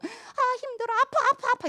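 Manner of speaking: high mock whining of a crybaby; whiny complainer. Mocking church whiners, high whiny mock complaint. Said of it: "막 징징이들 꼭 있어요".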